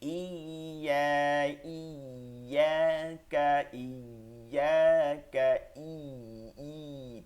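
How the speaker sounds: ইয়াকা with the y gripped and held; long ই locking firmly into ya; firm doubled ya. Shown as a demonstration. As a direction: lean hard on the doubled y in ইয়াকা, very slowly. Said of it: "ঠিক আছে, শক্ত করে".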